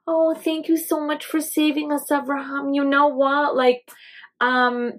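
unctuous, ingratiating king's voice; smarmy and slick, buttering him up; oily voice. Acted. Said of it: "I'm reading it in this very unctuous and oily voice".

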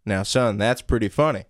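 measured Southern father; Southern accent. Acted. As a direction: gently admonish in a Southern accent. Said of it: "Southern accents?".

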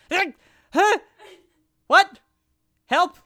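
very high, loud startled yelps; hammed-up squeaky panic; panicked squeaks. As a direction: yelp in helpless alarm. Acts panicked reaction to being left.

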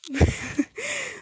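very high laugh. Real, not acted. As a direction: crack up at the scene. Laughing at the silent waltz. (risada aguda)

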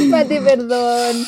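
slow, giggling sorry; laughing apology. Real, not acted. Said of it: "estoy roja de vergüenza".

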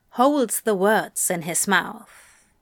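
ordinary delivery, nothing marked

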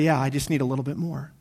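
low, soft, offhand answer; understated mock admission. Everyone answering how much is enough, low mock admission. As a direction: drop down as if quietly admitting it.

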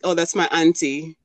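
light Jamaican lilt on "Oh, that's my auntie."; Jamaican-accented line, barely put on; Jamaican accent demo. Shown as a demonstration. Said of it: "we would say this, like".

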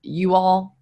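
high, pleading "Can you just say 'you all'"; exasperated request. Retold or imitated. Julia pleading with her male team, high and exasperated. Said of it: "'cause I'm like".

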